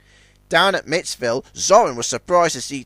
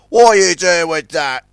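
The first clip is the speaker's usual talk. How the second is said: louder angry yell at a rival; 3 semitones higher, 7 dB louder than usual. A narrator's reading. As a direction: shout him down. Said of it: "he yelled at Zug".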